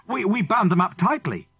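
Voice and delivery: stammering. Acted. Mister Andrews stammering, defensive.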